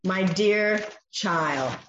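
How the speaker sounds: put-on slow, tender my dear child; very slow loving words; tender endearment. Shown as a demonstration. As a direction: say it like holding a child close. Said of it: "It's a term of endearment".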